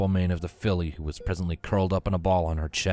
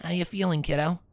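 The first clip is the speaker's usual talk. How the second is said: reassuring; 10 semitones higher than usual. A narrator's reading. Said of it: "tried to smile reassuringly".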